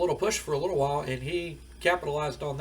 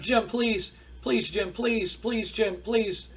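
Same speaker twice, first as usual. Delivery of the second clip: higher-pitched imitation of crying begging; mock tearful pleading; 6 semitones higher, much slower than usual. Wrestler begs his old manager backstage, mock tearful pleading. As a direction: beg in a pretend whimper, without real sobs. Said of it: "And he's crying".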